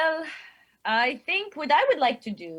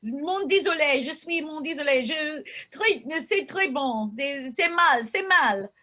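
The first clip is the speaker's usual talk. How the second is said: irritated French; 3 semitones higher than usual. Acted. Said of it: "you just start spouting all this French".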